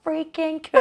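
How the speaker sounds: slow, gushing American impression; American accent. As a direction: drawl it out like an awed American. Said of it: "in America, they were all like".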